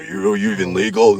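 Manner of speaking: high, loud mock accusation; imitated freak-out. Storyteller as dump owner challenging the family, high mock outrage. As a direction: sputter it as the outraged man. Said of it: "he's, like, freaking out".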